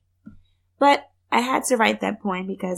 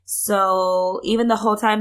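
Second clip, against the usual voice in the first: congested from a cold; stuffy nose. Real, not acted. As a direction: speak through a head cold. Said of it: "I sound a little crazy because I'm getting over a cold".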